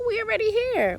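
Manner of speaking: high, sassy pep talk; sassy self-talk. Retold or imitated. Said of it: "But I was like".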